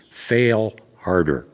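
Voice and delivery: quoting slowly. Retold or imitated. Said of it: "a line that he repeats many times".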